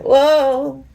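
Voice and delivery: high, slow, swooning cheer; high drawn-out tipsy cheering. Retold or imitated. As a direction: egg on the band like a tipsy fan. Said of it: "And I'm like".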